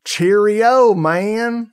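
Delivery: high, loud mock British greeting; British accent. Shown as a demonstration. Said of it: "British accent once in a while".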